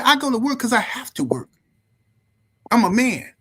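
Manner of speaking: high-pitched, emphatic retort; snapping father. Retold or imitated. Sick father telling his son why he works, snappish. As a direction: insist like a fed-up dad, imitated. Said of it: "he snapped on me".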